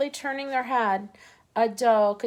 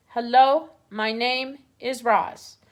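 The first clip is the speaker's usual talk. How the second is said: owl repeats the strange words; owl quoting robot; 2 semitones higher, 4 dB louder, slower than usual. Retold or imitated. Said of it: "I think it was saying".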